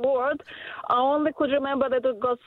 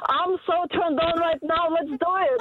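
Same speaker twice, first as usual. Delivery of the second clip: slightly higher, spelled out for a deaf man; repeated for a deaf man; 4 semitones higher than usual. Retold or imitated. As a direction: repeat it for someone hard of hearing. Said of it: "I thought that he's deaf".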